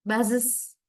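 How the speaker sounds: "Buzzes" in two syllables ending in "iz". Shown as a demonstration. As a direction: say "Buzzes" as "buz-iz". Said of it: "It's like is sound".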